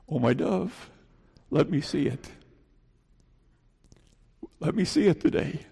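softly spoken, tender appeal; hushed, loving invitation; tender call. Acted. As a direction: call gently to a beloved, softly. Voicing God's tender call.

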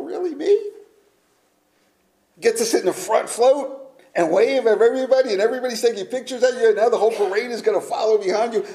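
high, fast, gushing grand marshal; preacher mocking a grand marshal's excitement. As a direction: ham up the thrill of leading a parade.

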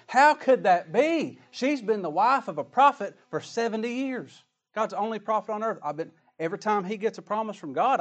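Sarah boasting of her years as prophet's wife; proud Sarah. Acted. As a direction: play Sarah scoffing at the promise. Preacher voices proud Sarah.

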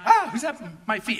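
acted jolt of alarm; mock-startled gasp into a question; startled fright. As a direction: play a man startled awake. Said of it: "he's shocked. He literally is scared".

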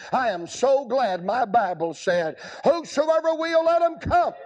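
fervent revival preacher; preaching at full force. Acted. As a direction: proclaim it to the crowd. Preaching builds.

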